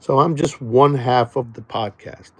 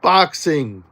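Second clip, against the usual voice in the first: higher, louder mocking jab; taunting DDP; 6 semitones higher, 5 dB louder than usual. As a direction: needle the big wrestler to his face. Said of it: "I said to him".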